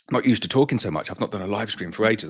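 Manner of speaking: a bit winded from talking; breathless, catching air between words; out of breath. Real, not acted. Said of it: "I'm out of breath already".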